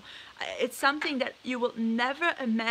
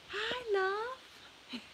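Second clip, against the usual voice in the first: high pet talk; 9 semitones higher, 7 dB quieter than usual. Real, not acted. Greeting her other parrot.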